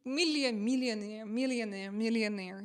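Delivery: "millionaire" repeated over and over after a false start; practising pronunciation. Retold or imitated. Streamer re-enacts practising live, "millionaire" repeated carefully. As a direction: drill "millionaire" word by word. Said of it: "I couldn't pronounce it that time".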